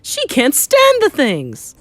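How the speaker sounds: high, slow, loud protest; frantic shout. Acted. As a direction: wail it loudly, dragging the words. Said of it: "shouted Mister Jenkins".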